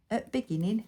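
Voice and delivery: Bolton accent, "at beginning" with the "the" dropped. Shown as a demonstration. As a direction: mimic her own Lancashire dialect, "at beginning". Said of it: "my Bolton accent then coming out".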